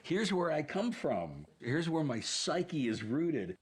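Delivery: Greg. Retold or imitated. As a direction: imitate someone baring their whole mind. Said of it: "Greg peeling the top of his skull back and saying".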